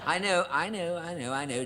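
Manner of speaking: half-laughing apology to the audience; sheepish laughing. Real, not acted. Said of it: "does sound a bit mushy".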